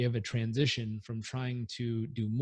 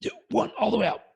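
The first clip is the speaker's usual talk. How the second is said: fast, high count, then push the air out; breathing out with a count; 10 semitones higher, 6 dB louder, faster than usual. Shown as a demonstration. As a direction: count down and let it all go. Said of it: "let's try it".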